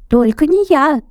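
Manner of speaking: high squeaky refusal; Круть squeaking his refusal; squeaking mouse. A narrator's reading. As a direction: squeak out not me. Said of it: "запищал Верть".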